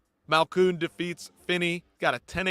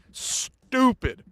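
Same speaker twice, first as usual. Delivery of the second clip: exasperated outburst; slower than usual. Real, not acted. Outrage at the judge.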